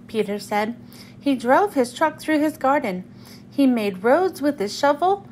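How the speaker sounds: expressive, unhurried picture-book narration; children's story reading. Acted. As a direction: read it aloud to young children, acting out the lines.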